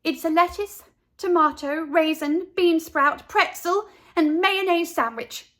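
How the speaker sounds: high, bright proud listing; proud girl voice. A narrator's reading. Carla proudly lists sandwich.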